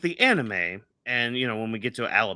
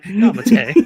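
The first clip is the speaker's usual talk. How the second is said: loud, high mock squeal; mock anime plea; 8 semitones higher, 12 dB louder than usual. Host joking about Garp senpai, mock anime squeal. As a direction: squeal it out as a joke.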